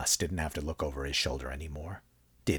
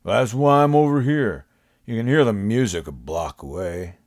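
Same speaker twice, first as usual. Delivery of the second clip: higher, louder, fed-up explaining; exasperated; 4 semitones higher, 4 dB louder than usual. A narrator's reading. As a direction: say it like it's obvious, annoyed.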